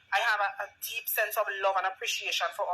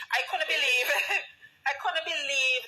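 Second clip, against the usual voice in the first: laughing disbelief; 3 semitones higher than usual. Real, not acted.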